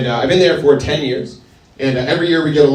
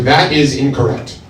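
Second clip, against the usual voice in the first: deadpan correction; slower than usual. Retold or imitated. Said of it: "And I was like".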